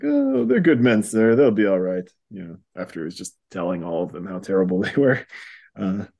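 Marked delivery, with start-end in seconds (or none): 0.0-2.0 voicing the sergeant major. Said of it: "And he's like".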